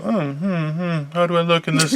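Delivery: soft self-admiring murmur; mock preening. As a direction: admire yourself on screen, quietly. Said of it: "you get to go".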